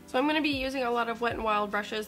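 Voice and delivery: jittery, fast and loud; rushing through on coffee jitters; too much caffeine. Real, not acted. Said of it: "I've also had a lot of coffee today".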